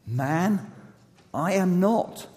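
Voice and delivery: protesting innocence, emphatic and high; indignant denial. Acted. Peter denies the accusation.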